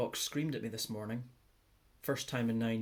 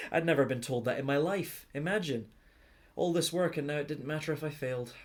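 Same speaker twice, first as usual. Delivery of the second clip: happy amazement; 4 semitones higher, 4 dB louder than usual. Acted. Amazed that failing was okay.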